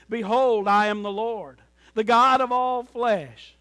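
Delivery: booming scripture proclamation; proclaiming. Retold or imitated. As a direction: announce it like the Lord. Quoting God's proclamation.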